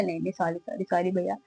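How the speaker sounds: a touch of hushed grovelling; meek apology. Retold or imitated. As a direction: apologise small and sheepish. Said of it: "हमने".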